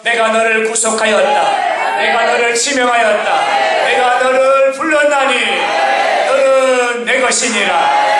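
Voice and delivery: scripture read out in a ringing preaching voice; preaching Isaiah forcefully; proclaimed scripture. Acted. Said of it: "이사야 사십삼 장 일 절의 말씀을 보면".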